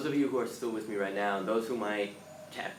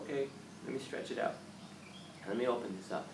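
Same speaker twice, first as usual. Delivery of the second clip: soft, gentle self-talk; gently; 5 dB quieter, faster than usual. Retold or imitated. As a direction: ease into it gently. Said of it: "you gently kinda go".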